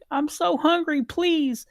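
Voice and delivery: put-on high, pleading little girl voice; tiny elf girl pleading for food; little girl begging. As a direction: beg like a starving child.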